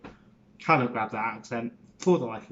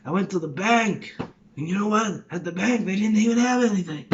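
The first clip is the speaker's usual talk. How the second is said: higher, kvetching Jewish New Yorker; Jewish New York accent; 4 semitones higher than usual. Shown as a demonstration. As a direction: put on a Woody Allen-style New York accent. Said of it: "then you got the Jewish one".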